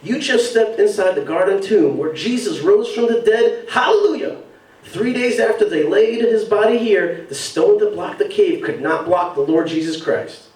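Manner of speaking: imitated preachy ad accent, Hallelujah pitched high; mock ad accent with a soaring Hallelujah. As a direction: put on the accent from the tourism ad. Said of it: "the accent that basically they made in these ads".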